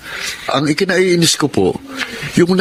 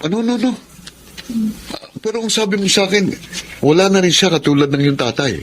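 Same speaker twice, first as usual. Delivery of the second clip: shocked; 8 semitones higher than usual. Acted. Husband shocked at hidden mother.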